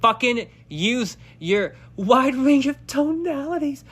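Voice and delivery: self pep talk. Retold or imitated.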